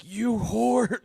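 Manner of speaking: high-pitched mock snarl from Santa; a cartoonish Santa insulting his wife; Santa snapping. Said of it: "He's like".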